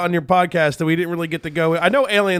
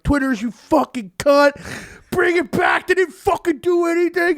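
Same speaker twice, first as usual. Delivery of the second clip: mock angry rant; 10 semitones higher, slower than usual. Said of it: "like, a big tweet like".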